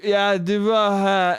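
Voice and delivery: boozy, garbled brush-off; drunk man. Retold or imitated. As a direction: lightly imitate a befuddled drunk. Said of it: "garbled mess to his drunk brain".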